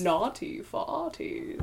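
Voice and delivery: breathy slow whisper of "Naughty farties". Pretend. Repeats it as a whisper.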